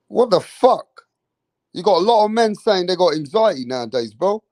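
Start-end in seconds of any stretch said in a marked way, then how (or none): 0.1-0.9 incredulous. Real, not acted. Reacting to anxiety claims.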